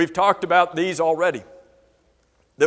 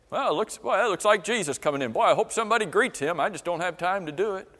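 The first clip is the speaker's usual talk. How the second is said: mock busy brush-off; 4 dB quieter, faster than usual. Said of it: "Think about the attitude we would have".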